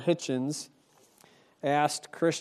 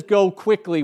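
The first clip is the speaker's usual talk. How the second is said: urgent command; 4 semitones higher, 7 dB louder than usual. Acted. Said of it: "and he says".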